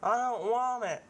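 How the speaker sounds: put-on high, pleading old man; a lightly voiced stubborn old man. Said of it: "can I pretend to be the old man".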